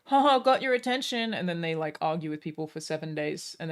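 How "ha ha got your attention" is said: higher, louder taunting voice; hammed-up smug reply; mock gloating. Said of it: "their response is always".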